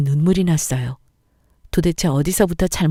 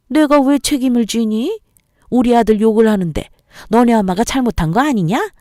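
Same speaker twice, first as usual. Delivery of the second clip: defiant mother-in-law; 5 semitones higher than usual. Acted. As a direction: bark it back daring her. Mother-in-law arguing back. (퉁명스럽게 따지는 시어머니)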